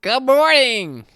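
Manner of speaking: high, slow, loud little gnome calling out; gnome greeting. Acted. Gnome artificer calling up to the guard in a squeaky high voice. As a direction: sing out a squeaky gnome hello. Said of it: "I'm a little gnome artificer".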